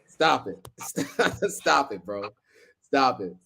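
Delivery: laughing through the words; real giggly protest; amused protest. Real, not acted. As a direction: beg someone to stop, cracking up. Cracking up at a viewer's comment.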